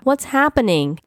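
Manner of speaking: high, anxious question; alarmed. A narrator's reading. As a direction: ask in startled confusion. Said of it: "I shouted with alarm".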